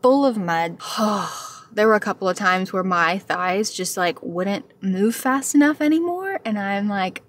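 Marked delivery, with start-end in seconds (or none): 0.8-1.5 weary sigh. Retold or imitated. Recounting the exhausting muddy run.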